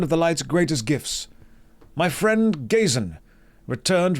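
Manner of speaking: lightly voiced, measured holy elder; solemn quest-giving priest. Priest sending a paladin to help a wounded friend, solemn. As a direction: give the blessing and quest as a benevolent priest. Reads quest giver's dialogue in character.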